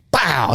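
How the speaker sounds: vocal bang sound effect; imitated gunshot. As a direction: mimic a rifle going off.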